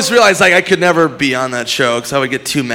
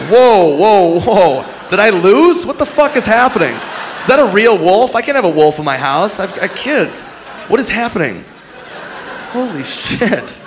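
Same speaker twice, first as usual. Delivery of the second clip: mock panic; 7 semitones higher than usual. Panicked contestant winning a wolf.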